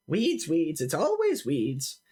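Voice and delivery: lightly voiced weary gardener, drawn out; a touch of grumbling over the chore. Wife complains while tearing up weeds, mild grumble.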